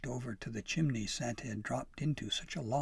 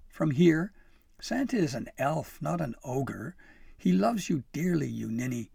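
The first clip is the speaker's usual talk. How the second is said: high, fond teasing; lively, loving exasperation; amused; 5 semitones higher, 7 dB louder than usual. A narrator's reading. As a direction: scold affectionately with amusement, voice raised. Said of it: "She laughed".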